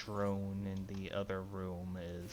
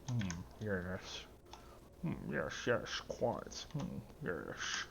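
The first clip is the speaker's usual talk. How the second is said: Sean Connery impression; much slower than usual. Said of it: "Now I'm just bad Sean Connery".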